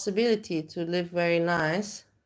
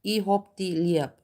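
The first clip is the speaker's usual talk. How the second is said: clipped Austrian. Shown as a demonstration. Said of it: "that's Austrian and German".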